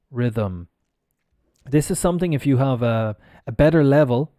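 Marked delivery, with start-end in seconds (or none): 0.1-0.7 rhythm with a vocalized th; voiced th. Shown as a demonstration. Teacher demonstrating unbroken vocal cords, voiced th in rhythm. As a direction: let the th in rhythm buzz. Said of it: "I don't stop my vocal cords".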